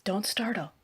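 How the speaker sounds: calm him without raising your voice; softly. Acted. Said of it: "I said softly".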